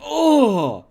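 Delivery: crying out at another cursed food; pained cry. Real, not acted. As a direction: let out a wounded wail. Groaning at horrible food pictures.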